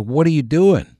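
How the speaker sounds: high, loud, incredulous "What are you doing?"; alarmed disbelief. Retold or imitated. Demanding to know why his friend drank the old beer, aghast and loud. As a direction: throw the question at him, aghast.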